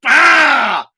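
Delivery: drawn-out yell of pent-up anger; angry outburst. Real, not acted. Aggravated host showing how he could explode, angry yell. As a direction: let pent-up anger burst out. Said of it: "with tons of anger".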